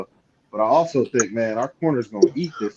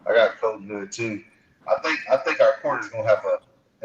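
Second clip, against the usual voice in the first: bad echo. Real, not acted. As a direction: voice echoing like in a hole. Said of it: "you got a bad echo".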